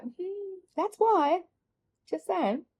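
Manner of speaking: high, knowing "hmm, that's why"; a smug little told-you-so. Retold or imitated. To herself eyeing trolleys, a knowing high hum.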